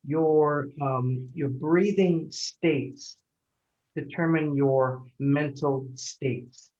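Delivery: slow, weighty emphasis on each word; slow and deliberate. Shown as a demonstration. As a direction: spell out the key point slowly. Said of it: "a statement that I like to tease my patients with".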